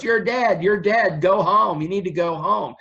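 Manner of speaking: imitating a psychic's high-pitched scolding; mock screaming. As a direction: act out psychics yelling at a ghost. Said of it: "start screaming at the ghost".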